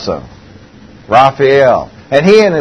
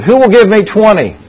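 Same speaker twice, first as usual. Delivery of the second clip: auctioneer call; 8 semitones higher, 5 dB louder than usual. Retold or imitated. Auctioneer calling bids.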